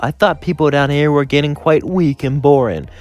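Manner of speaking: gleeful, thrilled by a new find; Jack's excited voice. Acted.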